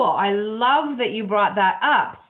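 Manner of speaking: slow, laughing through the words; real laugh of delight. Real, not acted. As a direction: laugh as you thank them, taking your time. Host moved, laughing warmly.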